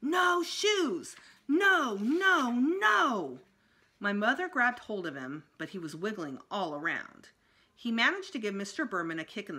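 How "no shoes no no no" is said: high, loud tantrum screams; full tantrum shriek; toddler screaming. A narrator's reading. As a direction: scream it, kicking on the floor. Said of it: "He screamed".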